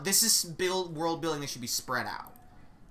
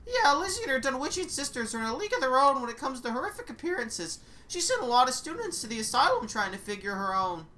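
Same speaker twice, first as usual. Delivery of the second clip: raised, brisk know-it-all guide; tour guide voice; 7 semitones higher, faster than usual. Acted. Guide explaining the strange school to the new witch, brisk and raised. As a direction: rattle off the lore like a cheery guide. Guide describes Dunwich sisters.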